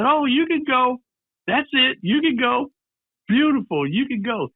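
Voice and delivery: high-pitched, delighted send-off; lightly acted, tickled casting director; delighted dismissal. Man cracked up laughing, dismisses boy.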